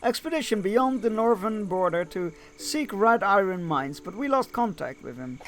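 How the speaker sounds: lively storybook read-aloud; game story narration. A narrator's reading. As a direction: read the quest briefing out to listeners. Reads the game's story text.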